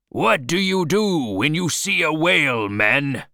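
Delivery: loud, high rallying question; rallying call. Acted. Captain to his gathered men, a loud rallying call. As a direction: fire the question out at the whole crew.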